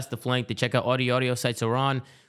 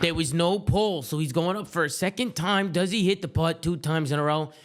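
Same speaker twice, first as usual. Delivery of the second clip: golf commentator; 2 semitones higher than usual. Acted. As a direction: narrate the putt like a TV golf announcer. Commentating the second putt.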